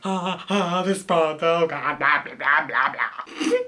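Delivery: laughing, tongue-tied gush of blah blah blah; too excited to form words; fangirl babble. Real, not acted. Reviewer fangirling so hard she can't form words, laughing babble. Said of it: "when you fangirl and words try to come out".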